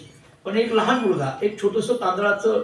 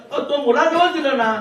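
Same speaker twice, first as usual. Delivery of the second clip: louder and higher, insisting; exasperated wife; 6 semitones higher, 5 dB louder than usual. Acted. Wife insisting to her husband the pandit, raised voice. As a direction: press him hard with the words.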